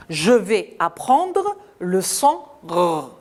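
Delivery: slow model sentence. Shown as a demonstration. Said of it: "c'est-à-dire".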